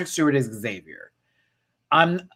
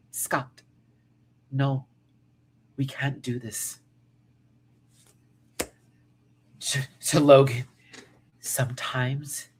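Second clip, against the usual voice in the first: put-on African accent. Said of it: "do her African accent now".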